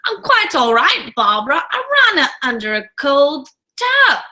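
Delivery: lightly acted movie quote; quoting a film character. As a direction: imitate his delivery of a favorite line. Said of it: "his little line where he's like".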